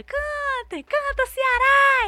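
very high, drawn-out stage shout; slow, soaring singer's crowd call; rousing the crowd. Retold or imitated. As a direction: holler to a huge audience to sing. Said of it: "puxando a galera".

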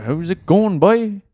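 put-on Newfie accent. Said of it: "I can't really do an im".

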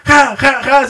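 high mock laughing fit; imitated guffaws. Novio imita a la novia a carcajadas, risa aguda fingida. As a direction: act out her pealing ha-ha-ha. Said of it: "pero a carcajadas".

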